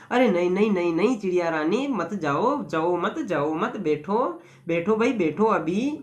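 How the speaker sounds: lightly acted pleading, pitched low and softened; gentle coaxing. Rich man urging the little bird to stay, gently coaxing.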